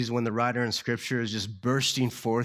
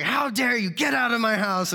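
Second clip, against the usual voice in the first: high, louder hammed-up fury; mock outrage; 11 semitones higher, 5 dB louder than usual. Hostess throws Larry out of her house in hammed-up rage. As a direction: throw him out in mock offence. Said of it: "cussing him out".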